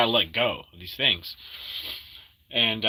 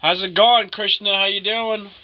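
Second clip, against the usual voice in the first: high, loud happy hello; excited greeting; 6 dB louder than usual. Acted. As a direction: greet him with big energy.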